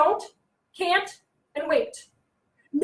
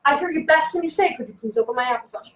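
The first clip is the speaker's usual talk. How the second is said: calm modelling. Shown as a demonstration. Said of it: "you're gonna say".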